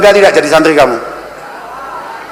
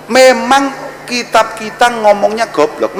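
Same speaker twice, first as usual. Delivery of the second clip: slow emphatic take; 4 semitones higher, 3 dB quieter, slower than usual. Shown as a demonstration. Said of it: "repeated slower".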